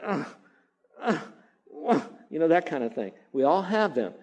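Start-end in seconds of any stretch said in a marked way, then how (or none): 0.0-2.0 groaning ugh. Retold or imitated. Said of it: "it just seems like".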